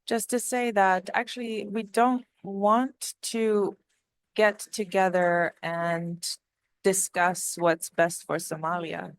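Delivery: slow, hoarse, strained voice; voice giving out. Real, not acted. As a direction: push words through a failing voice. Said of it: "sorry, I'm losing my voice".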